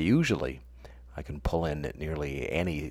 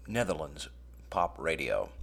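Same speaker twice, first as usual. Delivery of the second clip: whisper; 3 semitones lower, 7 dB quieter than usual. Real, not acted. Deadpan aside about Dutch radio.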